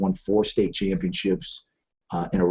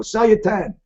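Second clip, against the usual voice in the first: pit call; 10 semitones higher than usual. Retold or imitated. Traders calling out in the pit.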